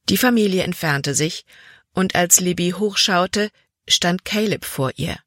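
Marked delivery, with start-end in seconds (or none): none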